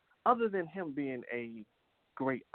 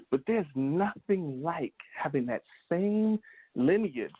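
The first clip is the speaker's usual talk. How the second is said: emphatic speech, key phrases pitched up; motivational oratory; 4 semitones higher than usual. Acted. Host urging children to think about their parents' struggles, motivational oratory. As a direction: preach the point with stretched key words.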